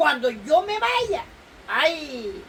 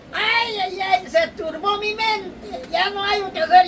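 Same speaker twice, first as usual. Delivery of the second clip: wailing lament; 6 semitones higher than usual. Acted. Lament over Jesus' departure.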